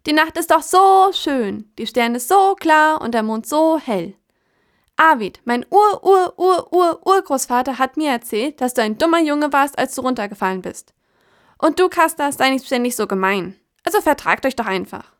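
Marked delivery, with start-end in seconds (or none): 0.1-10.9 hohe, langsame Krähenstimme; träumerisch wie ein junger Vogel; junge Krähe, schwärmerisch. Acted. Krähe Kraja spricht. 11.6-14.6 hohe, langsame Krähenstimme; träumerisch wie ein junger Vogel; junge Krähe, schwärmerisch. Acted. Krähe Kraja spricht.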